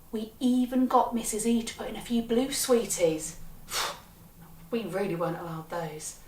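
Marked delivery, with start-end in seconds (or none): 3.4-3.9 soft wordless exhale; sigh. Acted. Child storyteller on getting forbidden blue sweeties, soft sigh. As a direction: let out a quiet breath.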